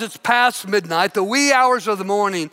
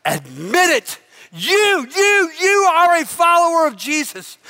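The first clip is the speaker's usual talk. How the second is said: snarling accusation; 7 semitones higher than usual. Acted. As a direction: get in his face. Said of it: "snarls and says".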